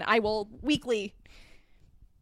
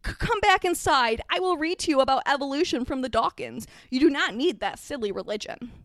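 a touch of stern insistence; commanding aunt; 2 semitones higher than usual. Acted. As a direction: order the child back, then ease off. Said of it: "Aunt Petunia commanded".

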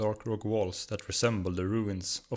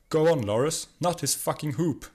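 higher and louder, cheering on a brawl; yelled; 7 semitones higher, 5 dB louder than usual. A narrator's reading. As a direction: shout him on from the rock. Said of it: "yelled Agnar".

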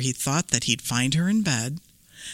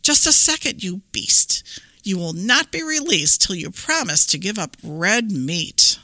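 put-on fierce little girl. Red holds down the wolf.

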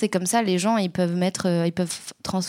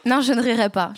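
holding back a laugh, failing; words breaking into a giggle; 3 semitones higher than usual. Real, not acted. Tries not to laugh. (en riant)

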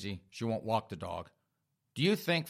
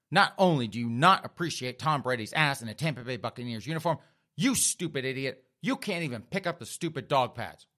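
scolding that climbs in pitch; angry tirade. Acted. Girlfriend confronting her boyfriend over dog pads, angry. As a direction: lay into him, rising on the insults. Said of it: "she is even more angry now".

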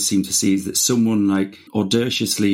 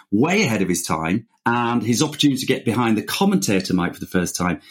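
presenter voice. Acted. Formal guest introduction read out.

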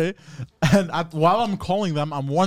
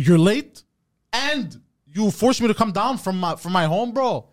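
raised, emphatic protest at the driver; retold yelling; 5 semitones higher than usual. Customer telling off late pizza driver, retold yelling. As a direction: punch it out, indignant and higher. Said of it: "you're yelling at this man".

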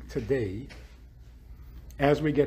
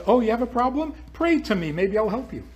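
mocking God; 7 semitones higher, faster than usual. Rabbi mimics a needy God to his audience, mocking and higher. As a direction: play a smug God dangling help. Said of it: "Then he says".

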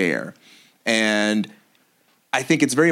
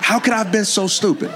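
high, fast, laughing at herself; laughing self-mockery; 10 semitones higher, faster than usual. Real, not acted. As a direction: toss it off with a laugh. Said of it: "I'm saying it".

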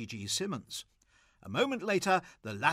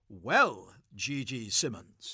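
cold and distant; 4 semitones lower, 4 dB louder, slower than usual. Acted. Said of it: "He was cold and distant".

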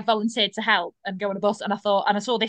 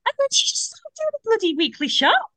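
laughing while telling; 12 semitones higher than usual. Real, not acted. Telling a funny date story.

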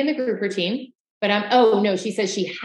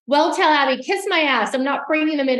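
higher-pitched, mock-defiant quote; raised, indignant imitation; retorting; 5 semitones higher than usual. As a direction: act out a heated comeback. Acts out heated retort.

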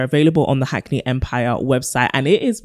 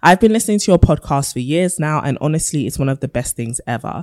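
letter reading. Acted. Reads a listener letter.

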